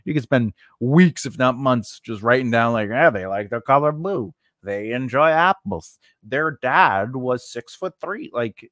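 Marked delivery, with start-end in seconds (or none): 2.9-8.3 mildly goofy voice for rattling off character trivia; funny voice. Acted. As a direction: read the list in a lightly silly voice. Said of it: "I did the funny voice".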